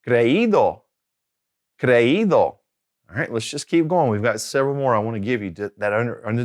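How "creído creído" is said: "creído" twice, í stressed and falling after; teacher's careful model of "creído", í stressed; stress on the accented í. Shown as a demonstration. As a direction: land on the í in "creído". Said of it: "putting that accent on there".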